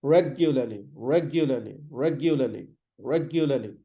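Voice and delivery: regularly as REG-yuh-luh-lee, repeated as a drill; "regularly" stressed at the start, weak endings; correct regularly. Shown as a demonstration. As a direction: say regularly with a falling tune each time. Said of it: "So regularly".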